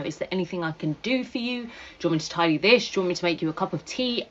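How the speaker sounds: fast, eager run of offers to help; quick, over-helpful chatter to the foster carer; eager to please. Retold or imitated.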